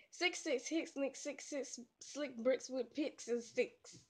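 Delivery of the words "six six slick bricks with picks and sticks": flat robotic monotone. Real, not acted. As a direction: recite it like a robot. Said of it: "I sound like a robot".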